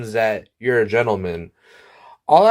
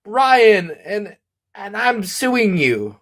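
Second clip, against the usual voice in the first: screamed rant fading into a slower mutter; screamed firing; 6 semitones higher, much slower than usual. Acted. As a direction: yell it at Brian like a furious boss. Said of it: "the once gentleman screamed".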